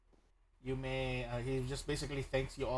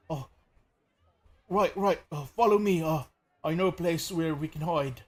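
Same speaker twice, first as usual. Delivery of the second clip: quick, louder urgent call to follow; urgent npc; 3 semitones higher, 4 dB louder than usual. Acted. Rescued man urges the party to follow. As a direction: hurry them along to safety.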